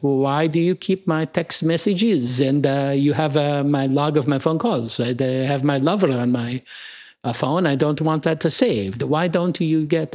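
light mock Italian accent; playful Italian accent for French caller. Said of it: "I'm going into my Italian accent".

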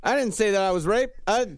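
retold defensive denial; Charles Manson. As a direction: lightly imitate an indignant interviewee. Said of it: "Charles Manson came out like".

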